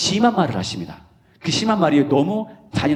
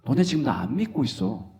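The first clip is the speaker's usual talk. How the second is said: ordinary delivery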